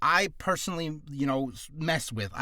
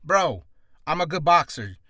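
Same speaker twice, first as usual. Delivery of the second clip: annoyed boxer; 5 dB louder than usual. Acted. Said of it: "he gets annoyed with the interviewer".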